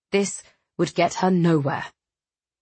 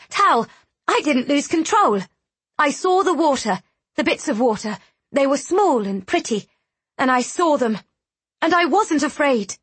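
put-on high, eager child voice; a small girl, proud and hopeful; little girl voice; 7 semitones higher than usual. A narrator's reading. Young Riel reassuring Tal.

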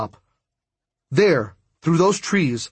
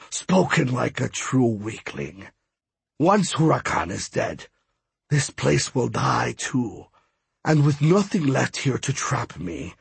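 lightly voiced smug god; gloating villain god. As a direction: gloat over the trapped hero, understated. Villain god's dialogue.

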